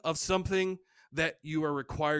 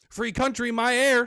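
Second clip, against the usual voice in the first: loud, higher Southern smoker; Southern accent; 5 semitones higher, 7 dB louder than usual. Acted. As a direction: throw it back in a brash Southern accent. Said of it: "See, the Southern accent just came out".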